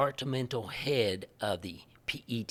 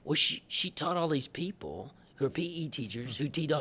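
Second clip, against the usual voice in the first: ordinary delivery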